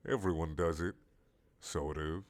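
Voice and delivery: sly giant squid murmuring. Acted. Squid voice in dialogue.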